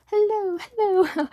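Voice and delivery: playful high-pitched greeting; high sing-song hello. Acted. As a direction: chirp hello, hello up high like a cartoon host. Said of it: "sing-song intro greeting".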